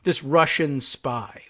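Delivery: mock NRA dismissal. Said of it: "it was the N R A saying".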